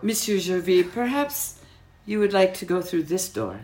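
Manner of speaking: put-on delicately polite French accent. Waitress showing customer the door, polite French accent. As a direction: usher him out in a French accent. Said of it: "my French was impeccable".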